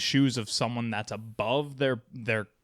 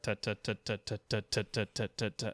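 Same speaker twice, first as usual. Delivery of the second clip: counting out rhythm; 2 semitones lower, 3 dB quieter, faster than usual. Shown as a demonstration. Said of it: "you're gonna start".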